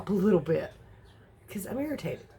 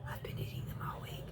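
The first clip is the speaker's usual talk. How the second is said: hushed confessional whisper, much softer; 15 dB quieter than usual. Real, not acted. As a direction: whisper it like a guilty secret. Confessing keto bar binge.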